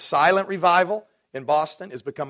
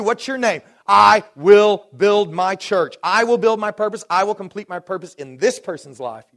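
voicing Jesus; 3 semitones higher, 6 dB louder than usual. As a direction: speak it as God's promise over them. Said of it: "He's saying that over you".

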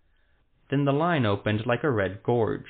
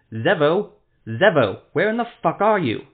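loud, higher frantic yelling; frantic shout for help, rising high; desperate calling; 6 semitones higher, 8 dB louder than usual. Acted. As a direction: shout for the Witcher in panic.

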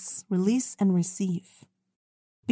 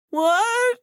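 startled what; 13 semitones higher, 4 dB louder than usual. Retold or imitated. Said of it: "she's like".

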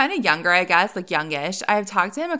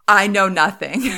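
loud, emphatic mock protest; animated imitation; 6 dB louder than usual. Giving the woman's response no matter what, animated. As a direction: punch it out like an animated stranger. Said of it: "in a very animated voice".

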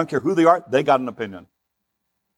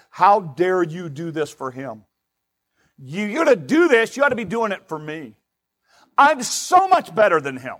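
enojo santurrón del hijo mayor; 3 semitones higher than usual. Acted. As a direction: act out the older son's resentful complaint. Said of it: "the anger of the oldest son".

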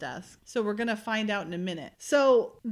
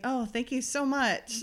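slow, softer imitation of forced politeness; reluctant mock thanks; 5 dB quieter than usual. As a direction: draw out the thanks as if unsure what to say. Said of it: "What does one say?".

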